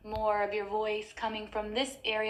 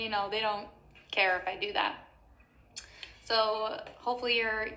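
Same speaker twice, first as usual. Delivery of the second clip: ordinary talk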